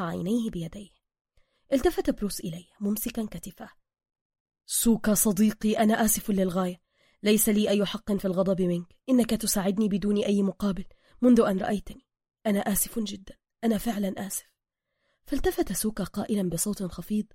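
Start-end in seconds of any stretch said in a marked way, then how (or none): 4.7-14.5 measured, contrite tone; sincere apology. Acted. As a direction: settle down and apologize earnestly. Gentle apology after quarrel.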